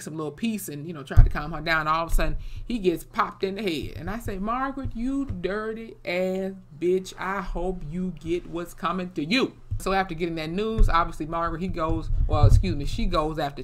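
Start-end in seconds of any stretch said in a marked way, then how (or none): 4.4-9.5 drawn-out, slow damning curse; indignant telling-off. Acted. Viewer scolding Margaret for what she did, indignant. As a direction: draw out every insult like a verdict.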